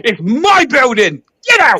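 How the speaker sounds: high yelling cult leader; L Ron Hubbard. Retold or imitated. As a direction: bellow it like an offended cult boss. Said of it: "fucking go as L Ron Hubbard".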